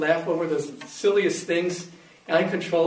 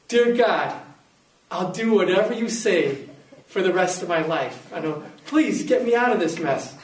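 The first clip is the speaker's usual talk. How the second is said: desperate prayer. Retold or imitated. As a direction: beg God to get you out.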